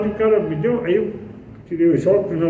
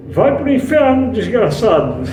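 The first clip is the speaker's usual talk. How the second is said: angry cursing; 3 semitones higher, 4 dB louder than usual. Retold or imitated. A woman at his gate curses him, a mock furious yell. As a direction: fling the curse at him, half-acted.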